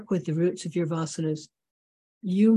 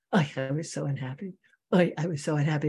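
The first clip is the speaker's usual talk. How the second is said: lightly imitated Yiddish-accented lament. Teacher likening our habits to the old man, light Yiddish accent. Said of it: "he talks in a Yiddish accent".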